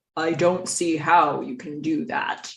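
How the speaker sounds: dead-serious, grave, low and slow delivery. Recapping a scene, quoting Walter's reply in a very serious Walter voice. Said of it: "that was my very serious Walter voice".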